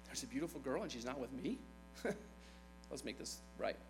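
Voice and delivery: scheming king. Retold or imitated. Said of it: "David's pride kinda got the better of him".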